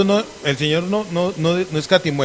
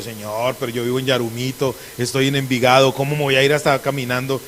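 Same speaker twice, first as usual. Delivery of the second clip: reluctant plea; 5 semitones lower than usual. Retold or imitated. Preacher replaying his excuses to God, reluctant pleading. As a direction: mildly whine an excuse to the Lord.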